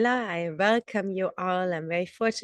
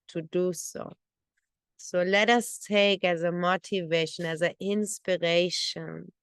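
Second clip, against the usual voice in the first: measured meditation guidance, phrase by phrase; guided meditation. Real, not acted. Teacher setting the motivation for morning practice, guided meditation voice. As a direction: guide listeners gently through their motivation, pausing often.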